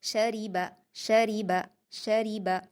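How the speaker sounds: शरीबा with a light, thin रा; शरीबा, thin ra, quick short syllables. Shown as a demonstration. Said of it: "इसलिए आप इसको बारीक पढ़ेंगे".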